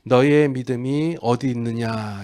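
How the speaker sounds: slow, unhurried question after the build-up; gentle question. Acted. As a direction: ask it slowly, without reproach. Gentle retake after rescue, against scolding. (나무람 없이 천천히)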